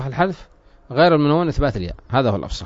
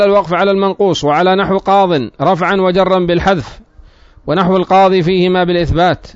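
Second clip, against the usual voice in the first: slightly raised, projected reading voice; formal text reading; 4 semitones higher, 4 dB louder than usual. Real, not acted. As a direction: read the grammar text out formally. Reads the book's text aloud. (قراءة متن بصوت جهوري)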